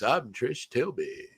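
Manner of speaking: slow, drawn-out Matt Berry voice; a plummy, slowed-down Trish Tilby; Matt Berry impression. Podcaster imitating the reporter as Matt Berry, slow and drawn out. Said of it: "sounds like him doing this voice".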